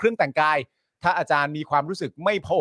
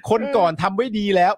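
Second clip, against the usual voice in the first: quoting the complaint with a laugh, pitch raised; mock whiny complaint; 5 semitones higher, 4 dB louder than usual. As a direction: sneer it like a grumbling resident. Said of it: "ไม่น่าฟังเลย". (ประชดแบบชาวบ้านบ่น หัวเราะปน)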